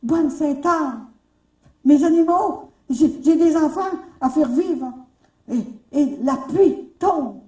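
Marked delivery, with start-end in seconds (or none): 0.0-4.9 slow, loud plea to Sainte-Anne; desperate outcry, higher and louder; crying out. Retold or imitated. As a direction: call out to the saint slowly and loudly. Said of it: "puis je crie".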